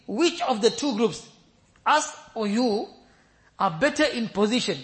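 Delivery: a hint of a sneering disbeliever; mocking taunt. Disbelievers taunting the believers, mocking and loud. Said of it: "they mock them".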